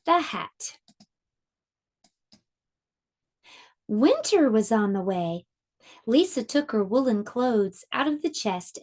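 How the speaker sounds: lively storybook reading with voiced animals; reading to children. A narrator's reading. Teacher reading a picture book aloud to her class, lively. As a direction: read it like circle time for little ones.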